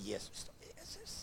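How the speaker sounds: faint, choked, pitched high as if throat squeezed; strangled plea. Retold or imitated. Dreamer being choked at night squeezes out Jesus, strained and faint. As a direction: barely force the name out while being strangled. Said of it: "så vidt å klare å si".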